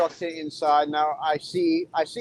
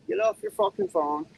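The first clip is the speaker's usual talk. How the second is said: mocking order; 13 semitones higher than usual. Real, not acted. Trucker mocks a driver on the phone, high taunting repeat.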